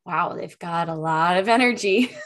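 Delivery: bright, animated demo of an excited wow. Shown as a demonstration. Host demos an energetic speaker, excited and emphatic. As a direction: gush it with big emphasis. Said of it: "they're talking like this and they're really excited".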